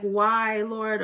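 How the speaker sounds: hammed-up cry to the heavens; mock crying wail. Person crying to the Lord after a tower moment, mock wailing. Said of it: "crying like".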